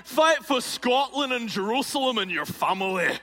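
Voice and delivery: high, loud Braveheart-style war cry to the troops; rally the army like William Wallace; rousing battle cry. Acted. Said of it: "And he would say".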